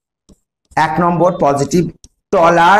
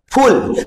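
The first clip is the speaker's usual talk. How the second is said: "ফুল" alone, higher pitched; syllable cut off; 5 semitones higher, much slower than usual. Shown as a demonstration. Teacher breaking beautiful into syllables, stopping after each. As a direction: say "ফুল" as a separate final syllable. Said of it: "থেমে যাও".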